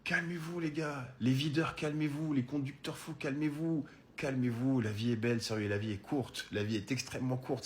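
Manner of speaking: doux et sincère, plus bas; apaisant. Real, not acted. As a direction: conseil posé, presque tendre. Conseil sincère aux spectateurs. (parler doucement aux spectateurs pour les calmer)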